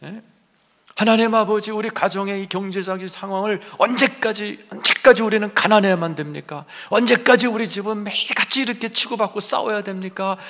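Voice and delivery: high, loud lament to God; anguished tearful plea. Acted. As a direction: act out a desperate worshipper's prayer. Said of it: "울면서 오신 분이 계실지 몰라요". (애타게 부르짖는 기도)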